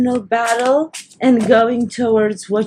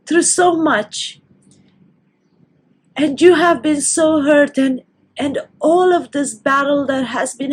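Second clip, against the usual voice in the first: tears of joy; 3 semitones higher than usual. Real, not acted. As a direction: let the tears come through the words. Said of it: "but they are tears of joy".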